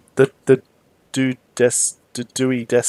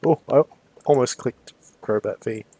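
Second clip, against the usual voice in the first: talking through hiccups; hiccuping mid-sentence. Real, not acted. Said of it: "Sorry, I got the hiccups".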